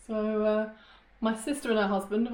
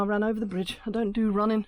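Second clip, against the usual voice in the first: winded after a run; out of breath. Real, not acted. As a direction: still puffing. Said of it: "I'm out of breath now".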